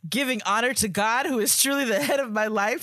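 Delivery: mock church welcome, loud and lifted; church greeting. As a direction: hail them like a church program speaker. Reading letter in church-greeting style.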